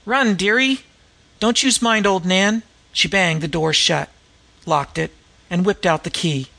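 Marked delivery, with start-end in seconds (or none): 0.0-2.6 screeching Gypsy Nan. A narrator's reading. Disguised woman screeches at an imaginary fugitive to run. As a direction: scream it as an old slum woman. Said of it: "Then Gypsy Nan again".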